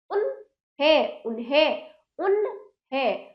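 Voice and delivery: उन्हें as un-hen, no vowel after न; correct half न. Shown as a demonstration. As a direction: rest on न, then हें in उन्हें. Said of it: "पूरा ना होता क्या?".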